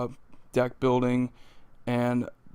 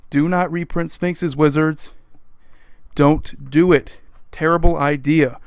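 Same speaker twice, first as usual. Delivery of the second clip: louder, slowed don't do it; firm raised appeal to Wizards; emphatic plea; 2 semitones higher, 4 dB louder than usual. Real, not acted. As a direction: lean in and tell the company to stop. Pleading directly with Wizards.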